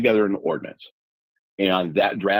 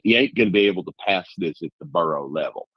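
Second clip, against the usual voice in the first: a hint of a Southern accent, half joking; put-on Southern accent. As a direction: imitate her in a mild Southern accent. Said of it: "I would like to impute a Southern accent".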